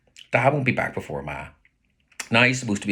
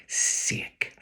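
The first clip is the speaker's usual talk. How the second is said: disgusted tut; 3 dB quieter than usual. Retold or imitated. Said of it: "I tut".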